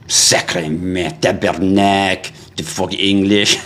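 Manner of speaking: put-on slow French-Canadian accent grumble; mock Québécois cursing. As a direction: swear slowly like an annoyed French-speaking Montrealer. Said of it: "start speaking English and they're all like".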